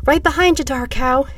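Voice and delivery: put-on high, loud small-boy voice. A narrator's reading. Small boy answering the man he follows, called out high. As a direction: call up ahead like an eager little boy. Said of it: "answered the small boy".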